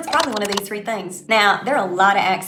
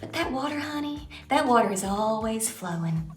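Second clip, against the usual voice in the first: Southern lilt. Shown as a demonstration. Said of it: "Think about a river".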